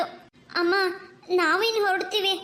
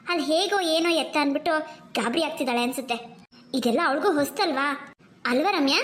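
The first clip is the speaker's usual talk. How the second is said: a hint of a caring mother; gentle mother; 4 semitones lower than usual. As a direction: lower motherly voice, soothing. Mother calms her daughters.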